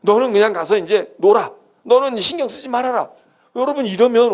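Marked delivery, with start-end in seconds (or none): 0.0-3.1 louder and higher, with a laugh; laughing parent telling the kid not to worry; cheerful parental urging. Acted. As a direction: brightly shoo the child off to play. Parent sending child to play.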